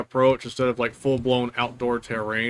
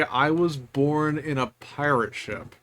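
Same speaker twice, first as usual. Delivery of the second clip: slow, words mangled by a held tongue; holding tongue with fingers; 3 dB quieter, slower than usual. Acted. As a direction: say it while pinching your tongue. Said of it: "Hold your tongue and say".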